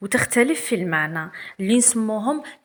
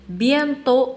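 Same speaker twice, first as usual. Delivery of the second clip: slow reading aloud; 3 semitones higher, 6 dB louder than usual. Shown as a demonstration. Teacher reading the text aloud to pupils, very slow. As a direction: read each word very slowly. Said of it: "On va commencer".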